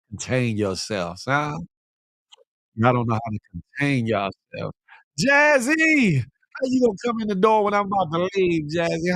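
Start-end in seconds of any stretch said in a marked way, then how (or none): 5.2-9.1 calling out. Real, not acted. Calling out late viewer.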